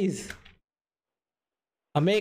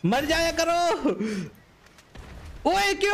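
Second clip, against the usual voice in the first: high-pitched gamer frustration; exasperated outcry; 6 semitones higher than usual. Real, not acted. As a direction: cry out in disbelief, pitch jumping up. Exasperated that enemy survives.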